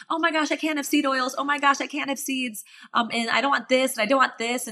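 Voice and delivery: a mock-panicked inner voice; mock anxious self. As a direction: whine it like a worried vegan. Mocking her vegan self's worries.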